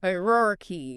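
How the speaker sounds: "Hierarchy" stressed on HI; first-syllable stress. Shown as a demonstration. Host repeating the correct way, first-syllable stress. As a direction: say "Hierarchy" leaning on the opening syllable. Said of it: "Emphasis on that first syllable".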